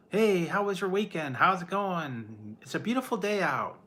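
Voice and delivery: bright, high, sing-song greeting; mock chipper coworker. Streamer mocking cheerful day-shift coworkers, high chirpy voice. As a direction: imitate the annoyingly cheerful morning crew.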